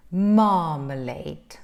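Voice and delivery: Marmalade slow, with a long open "mah"; open relaxed vowel. Shown as a demonstration. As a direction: draw out the first vowel of Marmalade, mouth open. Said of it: "relaxed sound and with the open".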